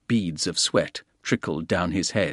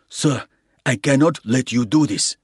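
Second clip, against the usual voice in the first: firm porter; 3 semitones higher, 3 dB louder than usual. A narrator's reading.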